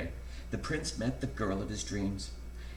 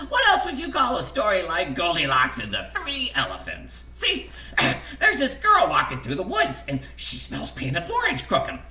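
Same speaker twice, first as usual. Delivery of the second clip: high, loud, tickled narration; giggly storytelling; 9 semitones higher, 6 dB louder than usual. A narrator's reading. Narrator telling a silly tale of Goldilocks and elephants, giggly and high. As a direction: barely hold back the laughter while telling it.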